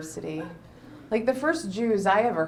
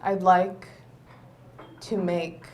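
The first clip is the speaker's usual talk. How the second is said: put-on slurring drunk toast, fading softer; drunk best man toast; 4 dB quieter, much slower than usual. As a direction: raise a glass like a tipsy best man. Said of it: "impression of a drunk best man".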